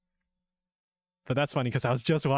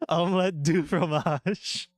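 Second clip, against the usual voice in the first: a hammed-up French accent, a bit higher; bad French accent; 6 semitones higher than usual. A viewer asks for a French impression, so a hammed-up French accent. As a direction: ham up a cliché French accent. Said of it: "best French impression".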